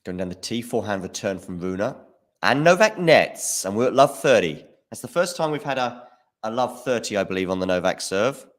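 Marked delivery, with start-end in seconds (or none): 2.4-4.6 excited. Real, not acted. Missed shot in tight game.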